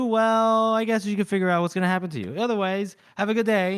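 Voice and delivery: lightly acted sing-song dismissal; breezy veiled threat. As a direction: toss off a threat cheerfully. Retold veiled threat and cheery farewell.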